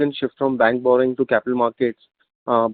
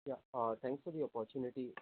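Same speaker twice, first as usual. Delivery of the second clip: very faint, barely audible; too quiet; 23 dB quieter than usual. Real, not acted. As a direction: speak far too softly to be heard. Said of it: "speak a bit louder".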